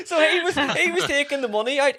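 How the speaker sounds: high voice bubbling with real laughter; laughing. Real, not acted. Storyteller explaining the joke while cracking up, laughing. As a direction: talk on through your laughter.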